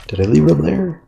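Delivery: suddenly alarmed, calling out; real alarm. Real, not acted.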